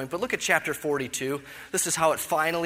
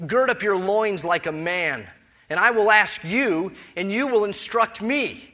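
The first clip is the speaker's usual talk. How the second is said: loud, higher, mocking challenge; sarcastic divine challenge; 5 semitones higher, 6 dB louder than usual. Preacher voicing God challenging Job, loud and sarcastic. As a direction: throw it down like a scornful God. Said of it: "there is some sarcasm that I think".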